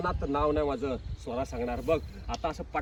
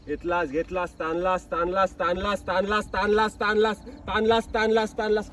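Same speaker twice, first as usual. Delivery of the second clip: building urging; 3 semitones higher, 6 dB louder than usual. Real, not acted. Director building tension of stretch.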